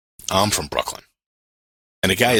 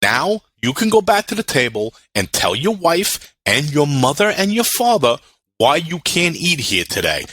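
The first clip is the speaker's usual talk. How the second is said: 1 scolding; 6 semitones higher, slower than usual. Retold or imitated. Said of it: "scolding the customer".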